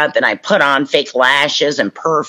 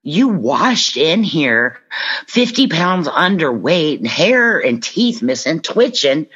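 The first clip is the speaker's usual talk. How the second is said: higher, slow, pointed reminder; stern self-talk; 5 semitones higher, slower than usual. Real, not acted. A woman reminding herself where she came from, slow and pointed. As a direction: spell it out to yourself slowly. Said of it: "I have to say that to myself".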